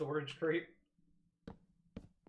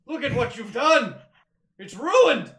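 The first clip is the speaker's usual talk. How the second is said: loud, slow, higher hammed-up lament; over-the-top mock despair; mock grumpy old man; 7 semitones higher, 11 dB louder than usual. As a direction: wail like a cranky grandpa over ruined work. Mock lament at ruined build.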